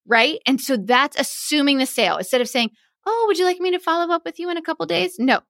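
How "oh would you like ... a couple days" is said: high, quick, tentative mock offer; unconfident sales pitch. Shown as a demonstration. Wedding pro offering a couple a follow-up, mock unconfident. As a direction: ask it timidly in a raised, hurried voice. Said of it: "no, that's not confident".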